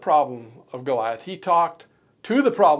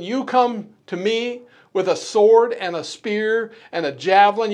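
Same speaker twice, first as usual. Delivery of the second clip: preaching at full force. Acted. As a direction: proclaim David's defiance to the giant. Reads scripture at full force.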